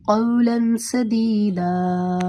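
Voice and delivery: slow recited verse; Quran recitation. Shown as a demonstration. Teacher giving the third Quran example, slow recitation. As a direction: recite it slowly and smoothly. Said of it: "تیسری مثال دیکھ لیں".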